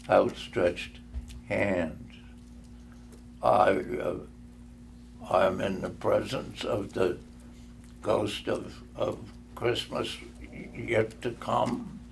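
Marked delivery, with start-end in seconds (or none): 3.4-12.0 quiet, awed and fearful; hushed dread. Acted. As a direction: speak softly before the phantom. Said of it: "said Scrooge".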